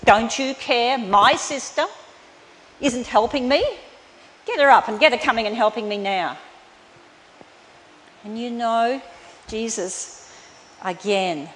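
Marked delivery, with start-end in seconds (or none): 0.0-6.4 louder indignant demand; accusing complaint. Retold or imitated. Martha demanding Jesus send Mary to help, loud. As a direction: snap at him to make her sister help. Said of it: "she accused".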